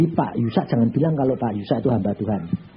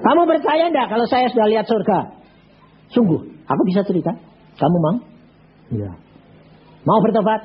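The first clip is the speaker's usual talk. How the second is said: urgent preaching; 7 semitones higher than usual. Retold or imitated. Pastor urging the dying banker to repent, urgently. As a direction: press him hard to repent.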